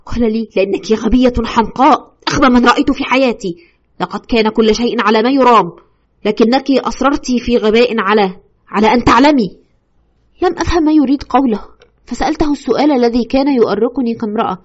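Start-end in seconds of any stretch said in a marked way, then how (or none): 0.6-9.6 scolding ghost. Retold or imitated. Ghost berates the widow.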